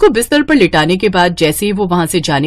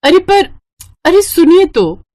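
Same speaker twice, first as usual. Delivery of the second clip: higher, louder call to a husband walking off; calling out after him; 10 semitones higher, 3 dB louder than usual. Acted. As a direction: shout after him to wait. (जाते हुए पति को ज़ोर से पुकारना)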